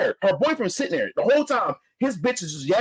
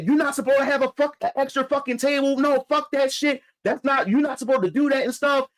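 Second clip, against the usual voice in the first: a touch of an angry woman cussing someone out; lightly imitated angry rant; mock angry cussing; 5 semitones higher than usual. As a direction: mildly voice her ranting at the brother. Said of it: "The bitch is cussing my brother out".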